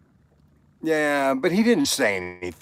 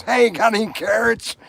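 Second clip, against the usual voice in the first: higher, perky rabbit asking sweetly; cheeky rabbit voice; 9 semitones higher than usual. Acted. Joke teller voices the rabbit asking the butcher, high and cheeky. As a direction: pitch it up like a pushy little rabbit.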